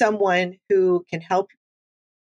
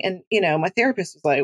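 ordinary talk

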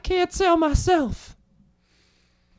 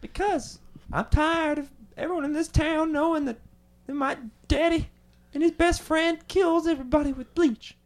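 character voice; 3 semitones lower, 3 dB quieter than usual. Acted. Harold character complaining.

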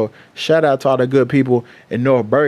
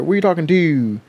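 quick imitation of Baltimore speech; lightly put-on Baltimore accent; 2 semitones higher than usual. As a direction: mimic a Baltimore local, fronting the vowel in "to". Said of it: "that's how they fucking talk".

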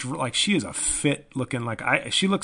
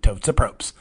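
insecure repeat; 7 dB louder than usual. Shown as a demonstration. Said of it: "insecure about a joke".

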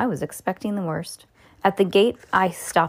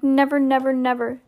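higher-pitched, insistent repetition; desperate cry; 7 semitones higher than usual. A narrator's reading. Mister Gregg swearing to the ducks, desperate cry. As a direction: keep pleading, each word a vow. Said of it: "cried Mister Gregg".

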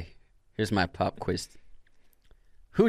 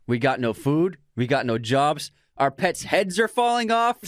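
Dumb and Dumber quote; 4 semitones higher than usual. Acted. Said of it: "Dumb and Dumber".

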